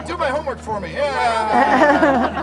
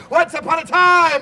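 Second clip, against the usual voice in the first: loud; 4 semitones higher, 4 dB louder than usual. Shown as a demonstration. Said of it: "as loud as you can".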